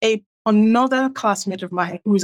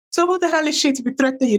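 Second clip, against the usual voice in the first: retold indignation; 6 semitones higher, faster than usual. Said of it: "And then he got angry".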